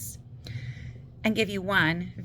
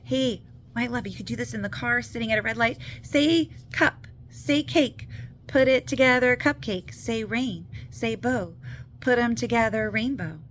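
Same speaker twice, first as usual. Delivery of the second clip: slightly raised, encouraging parent voice; parent to child; 3 semitones higher than usual. Acted. Parent playing word game with child in car, encouraging. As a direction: coach a little one through a word game.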